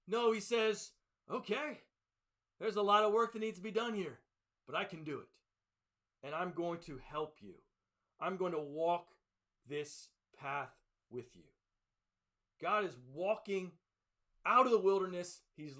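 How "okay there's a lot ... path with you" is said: gentle reassurance. Retold or imitated. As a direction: settle down into a gentle, patient voice. God's answer contrasted with grumpy parent.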